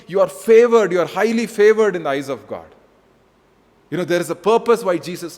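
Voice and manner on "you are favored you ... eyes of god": preaching emphasis. Real, not acted. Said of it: "preaching emphasis".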